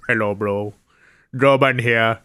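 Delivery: lightly put-on Indian tech-support voice; mock Indian accent. Host mimics Indian tech support video, light Indian accent. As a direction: play an Indian tech helpline host, hammed up. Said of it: "go through India".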